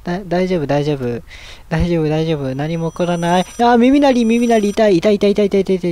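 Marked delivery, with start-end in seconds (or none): 3.4-5.9 rapid string of ows, raised in pitch; yelping repeatedly at the ear pain; pained complaint. Real, not acted. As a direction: react to painful ringing in the ears.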